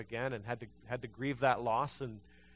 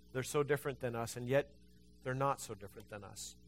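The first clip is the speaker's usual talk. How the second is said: prayer; 2 semitones lower, 4 dB quieter than usual. Real, not acted. Pastor leading the congregation in closing prayer, soft and earnest. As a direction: pray quietly with the congregation.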